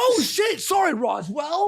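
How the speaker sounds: high, sudden exclamation; startled apology. Real, not acted. Co-host apologising to a missed supporter, startled. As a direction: blurt a startled apology, pitch jumping up.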